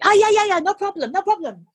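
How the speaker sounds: high, bright quick yeses; eager nurse. Retold or imitated. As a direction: gush out yes as the keen nurse. Nurse's eager reply voiced.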